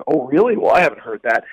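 mildly sarcastic retold reply; feigned surprise, lightly sarcastic. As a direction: imitate a lightly sarcastic comeback. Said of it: "he kinda sarcastically said".

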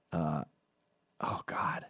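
hushed, whispered groan of misery; whispered dread. Real, not acted. Recalling a brutal hangover, whispered groan.

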